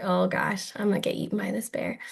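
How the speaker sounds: half-whispered, hushed mock panic; mock scared whisper. Imitating viewers facing the bear, hushed mock fright. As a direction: play the frightened camper, breathy and quick. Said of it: "so they're like".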